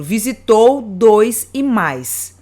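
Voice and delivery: "visitou dois e mais" said slowly, leaning on the stressed vowels; slow teaching demo. Shown as a demonstration. ("visitou dois e mais" devagar, marcando a vogal forte)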